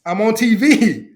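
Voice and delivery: slow, hammed-up bragging call; proud boast. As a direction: show off to mom, stretching it out slowly. Imagined boast to mother on TV.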